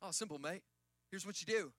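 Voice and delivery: imitated Australian accent, mate; casual mock-Australian quote. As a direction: put on a light Aussie accent for the mentor. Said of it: "In his Australian accent".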